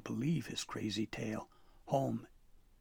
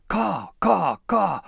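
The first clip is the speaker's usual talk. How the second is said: high, loud, frantic crow squawks; desperate crow caw; 8 semitones higher, 12 dB louder, much slower than usual. Acted. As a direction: caw as if begging him to follow. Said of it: "Corvus affirmed desperately".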